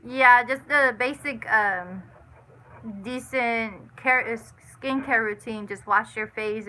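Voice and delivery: talking while chewing chicken; eating crunchy fried chicken. Real, not acted. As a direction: mouth full of chicken. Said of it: "Sorry, I'm eating chicken".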